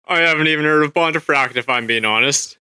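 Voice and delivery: odd costume voice; silly put-on character voice. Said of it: "you're not down with the voice?".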